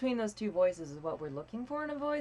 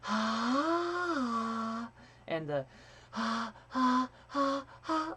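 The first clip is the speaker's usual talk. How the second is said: airy ahs stepping higher; breathy pitch slides; 4 semitones higher, much slower than usual. Shown as a demonstration. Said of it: "we practice being able to go".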